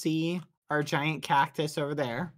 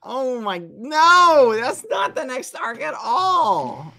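laughing; 9 semitones higher, 10 dB louder, slower than usual. Real, not acted. Laughing at the mix-up.

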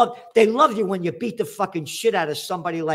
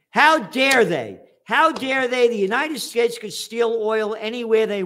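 mock outrage; 5 semitones higher than usual. Mocking Syria's demand on the US, in sarcastic mock outrage. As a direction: fake indignation, dripping sarcasm.

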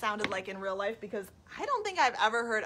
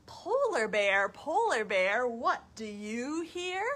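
measured sing-song story question; reading to children; 3 semitones higher, slower than usual. Acted. Reading the story to children, lilting question. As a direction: chant it like a picture book. Reads picture book to children.

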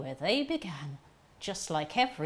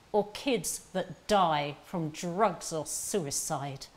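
impassioned protest; 5 dB louder than usual. Acted. Bitter listing of families' hardships.

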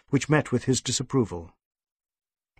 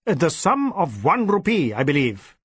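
offhand boss; 4 semitones higher than usual. Acted. DSP voiced.

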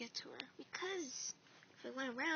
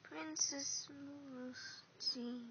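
slow repeat; much slower than usual. Acted.

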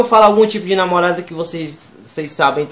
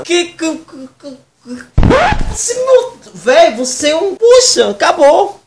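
shrieking meltdown; 11 semitones higher, 4 dB louder, slower than usual. Acted. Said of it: "namorada estressada".

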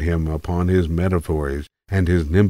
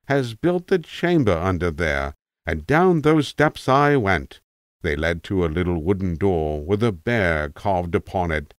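a hint of a rambling old tramp, musing; an old vagrant drifting into memory, lightly done; a lightly voiced tramp reminiscing to a young listener. Tramp tells graveyard tale.

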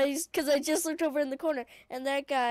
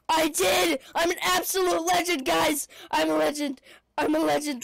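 excited boasting; 3 semitones higher, 5 dB louder than usual. Real, not acted. Boasting after killing swarm.

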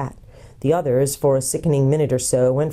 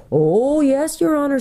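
high, enthusiastic creature voice; eager gnome; 11 semitones higher, 3 dB louder, slower than usual. Acted. Golg answers Eustace about his homeland, as eager gnome.

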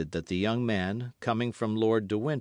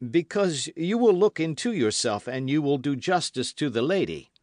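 high, pressing appeal to a lord; urgent, higher-pitched insistence; insistent young officer; 7 semitones higher, 5 dB louder than usual. A narrator's reading. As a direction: plead for justice with raised voice.

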